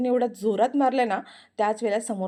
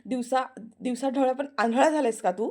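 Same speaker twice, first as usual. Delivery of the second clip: angry; 3 semitones higher than usual. Acted. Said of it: "Aarti रागारागात".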